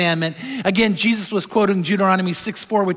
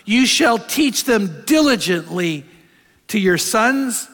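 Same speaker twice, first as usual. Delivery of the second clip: measured scripture reading. Acted. Reading Deuteronomy aloud.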